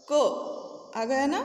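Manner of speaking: क stretched slowly so the अ is heard; drawn-out क. Shown as a demonstration. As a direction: say क long and slow, letting the अ ring at the end. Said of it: "जब हम क उच्चारण करते हैं तो अ का प्रोनाउंसिएशन आता है".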